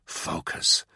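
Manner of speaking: whispered self-command; a breathless inner order to himself. A narrator's reading. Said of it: "he told himself".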